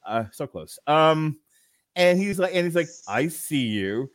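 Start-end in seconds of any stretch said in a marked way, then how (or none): 3.1-4.1 low, slow creepy voyeur murmur; pervy Gossip Girl voice. Retold or imitated. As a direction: leer it out slowly and lower. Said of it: "in his pervy Gossip Girl voice".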